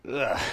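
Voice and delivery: short "ugh" of sympathetic pain; wincing groan. Retold or imitated. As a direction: groan as if it hurts to hear. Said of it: "the whole time just like".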